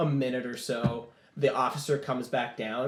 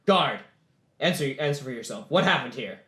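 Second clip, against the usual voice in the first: lightly voiced officer demanding a report; commanding general; 3 dB louder than usual. General questioning a guard, mildly commanding. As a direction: call the guard to account, fairly firmly.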